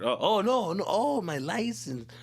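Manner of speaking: mock scared fumble. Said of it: "I got scared".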